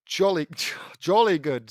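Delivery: lightly attempted British accent, breaking into a laugh. Reader voicing his character's British reply, half-hearted British accent. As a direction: try a hammy British "jolly good". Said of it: "I say in a British accent".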